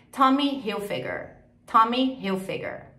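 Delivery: "Tommy Hilfiger" with English H and R; careful English "Tommy Hilfiger"; English pronunciation. Shown as a demonstration. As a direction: model "Tommy Hilfiger" word by word. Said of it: "em inglês".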